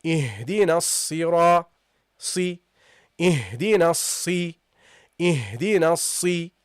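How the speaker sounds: si said with an i after a doubled s; slow Ihdinas si, s doubled across the join; second sad with kasra. Shown as a demonstration. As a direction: hold the s in Ihdinas si, then release into i. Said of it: "you pronounce it with the kasra".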